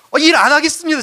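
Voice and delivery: high-pitched playful ultimatum; mock threat. Missionary threatening God with a strike, mock defiant. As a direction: threaten to quit, half in jest. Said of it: "제가 이렇게 협박".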